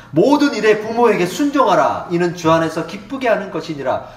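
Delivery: solemn loud scripture read. Acted. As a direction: proclaim the verses to the congregation. Reads scripture aloud.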